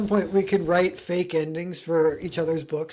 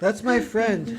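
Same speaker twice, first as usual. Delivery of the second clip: slow, lightly voiced surfer bro; a hint of easygoing bro; laid-back bro; 2 semitones higher, slower than usual. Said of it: "he's like a bro".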